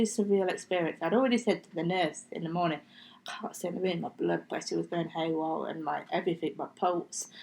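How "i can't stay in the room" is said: weak whisper. Retold or imitated. Telling the nurse she's overwhelmed.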